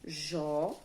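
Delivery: "Jó" on its own, held and rising at the end; isolated syllable. Shown as a demonstration. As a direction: sound out "Jó" as a single beat. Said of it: "que é a primeira sílaba".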